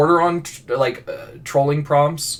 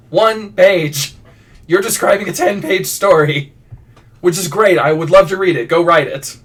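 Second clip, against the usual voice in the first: louder, higher mock exasperation; exasperated retort; 4 semitones higher, 4 dB louder than usual. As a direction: push back emphatically, as if fed up. Exasperated retort to prompt giver.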